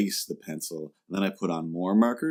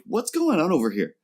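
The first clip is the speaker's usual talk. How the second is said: mock puzzled; 5 semitones higher than usual. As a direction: act bewildered. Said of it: "I literally had to".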